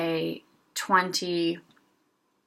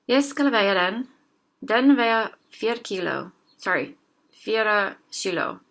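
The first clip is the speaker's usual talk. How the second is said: slow careful reading. Shown as a demonstration. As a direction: read the Norwegian dialogue slowly, word by word. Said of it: "I'll read the whole thing in Norwegian slowly".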